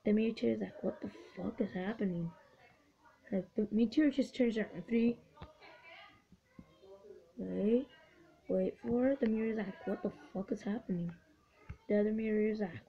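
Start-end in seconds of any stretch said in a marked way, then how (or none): 0.8-2.3 soft, low mock confusion; quiet mock bewilderment; baffled voiced quote. Voicing the baffled meteor. 9.9-11.1 soft, quick muttered confusion; quiet mock bewilderment; baffled voiced quote. Voicing the baffled meteor.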